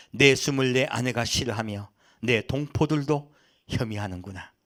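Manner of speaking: measured, even reading of Job's lament; scripture reading. A narrator's reading. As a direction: read the passage out formally and steadily. Reads scripture aloud.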